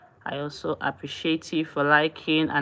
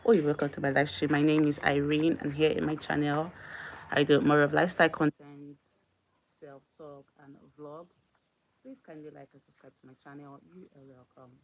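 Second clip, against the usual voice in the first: brisk, formal broadcast read; newscaster voice. Shown as a demonstration. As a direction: read it like the evening news. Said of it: "should I start talking like a newscaster".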